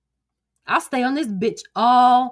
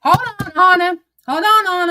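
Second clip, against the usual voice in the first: sharp call; 7 semitones higher, 6 dB louder than usual. Real, not acted. Reacts sharply to Anna's post.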